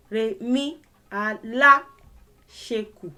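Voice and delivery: slow Re mi into Alasheku; tones then word. Shown as a demonstration. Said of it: "That's how the word is pronounced".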